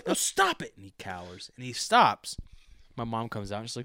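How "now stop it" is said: very high, loud, slow scolding; yelling at a dog. Acted. Man storming back to the barking dog, loud scolding. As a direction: order the dog to quit, at full pitch. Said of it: "I'm yelling at him like it's my dog".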